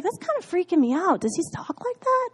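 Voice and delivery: mock alarm. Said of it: "I was like".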